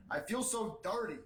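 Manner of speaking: a hint of a wronged politician; mock self-disgust in a put-on voice; Bernie Sanders. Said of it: "Sanders said".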